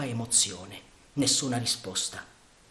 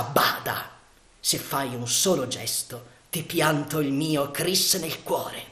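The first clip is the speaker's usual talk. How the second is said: hushed, slow menacing threat; 2 semitones higher, slower than usual. Acted. Yanez threatening the gagged sentry, hushed and slow. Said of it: "dicendogli con voce minacciosa".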